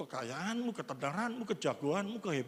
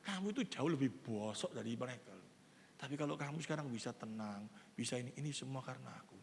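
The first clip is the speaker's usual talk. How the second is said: God speaking; 7 semitones lower, 5 dB quieter than usual. Retold or imitated. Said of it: "Tuhan ingin ngomong sama kamu".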